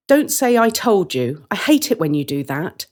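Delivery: annoyed, pleading him not to gloat; irritated sister. Acted. Sister warning her brother not to gloat, irritated. Siblings bickering.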